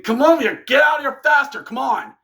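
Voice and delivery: high, fast imitated shouting; mock impatient call to hurry; urgent yell. Wrestler urging ally to hurry.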